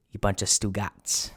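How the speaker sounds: mock Italian-American mobster insult; Soprano talk. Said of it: "I could go into Soprano talk".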